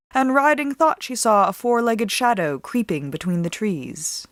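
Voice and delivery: plain reading voice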